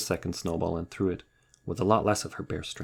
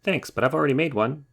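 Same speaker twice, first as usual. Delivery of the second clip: louder, higher, huffy reply; indignant retort; 8 semitones higher, 6 dB louder than usual. Acted. Rabbit bristling at Bear's compliment, louder and huffy. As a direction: put her in her place. Rabbit snapping back at Bear.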